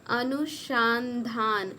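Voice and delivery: अनुसंधान drawn out very slowly, part by part; slow sounding out. Shown as a demonstration. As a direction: stretch अनुसंधान syllable by syllable. Teacher sounding out a spelling. (अनुसंधान को धीरे-धीरे तोड़कर बोलें)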